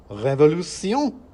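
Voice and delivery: high, loud, slow squeaky rallying shout; revolutionary cry. Acted. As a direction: rouse the rodent masses. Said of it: "cried the mouse in the sock".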